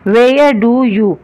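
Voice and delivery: very slow, word-by-word English sentence; slow dictation. Shown as a demonstration. Teacher to class, dictating the question word by word, very slow. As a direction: spell it out slowly for students. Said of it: "teacher dictating sentence".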